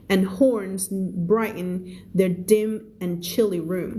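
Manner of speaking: slow, measured English reading; story read-aloud. Acted. Teacher reading a story to English learners, slow read-aloud.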